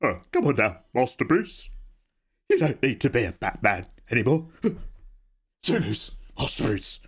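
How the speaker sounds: a hint of the old butler, fondly teasing; Michael Caine. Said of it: "Michael Caine".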